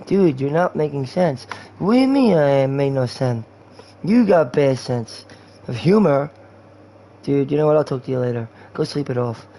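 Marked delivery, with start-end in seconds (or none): 1.8-6.3 indignant mock-drunk slur; drunk guy. Drunk guy told he makes no sense, indignant slur. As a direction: slur it out, offended and boozy. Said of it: "that's talking to a drunk guy".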